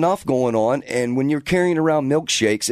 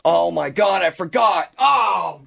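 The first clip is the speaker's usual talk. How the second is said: real dismay, pitch climbing to a cry; dismayed outburst; 4 semitones higher, slower than usual. Real, not acted. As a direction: cry out at your own blunder. Realises he forgot to clock in.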